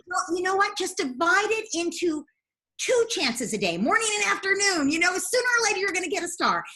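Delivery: high, upbeat reassurance; lifted pitch, coaxing them along; encouraging reply. Retold or imitated. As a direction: cheer on a discouraged parent. Voicing own encouragement to parent.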